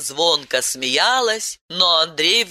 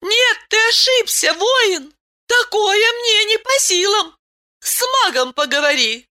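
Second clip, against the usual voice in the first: surprised protest. A narrator's reading. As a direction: protest in surprise, well up high. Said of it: "изумилась Айлен".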